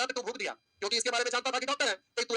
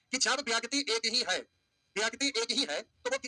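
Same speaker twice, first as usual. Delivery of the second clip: slow emphasis; slower than usual. Shown as a demonstration. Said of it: "हम आपसे कहना ये चाह रहे हैं".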